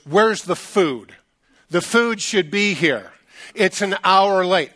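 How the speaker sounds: slow, emphatic mock indignation; retold fuming. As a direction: complain word by word as a fuming guest. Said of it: "he's fuming".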